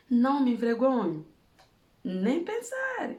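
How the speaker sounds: high, slow, drawn-out no way; emphatic refusal. Real, not acted. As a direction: stretch it out high as a flat refusal. Refusing to feel ashamed. (recusa enfática, aguda e arrastada)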